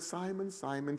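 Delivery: breathy hush calling Simon; whispered. Shown as a demonstration. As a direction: whisper the name twice. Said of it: "Jesus might have whispered it".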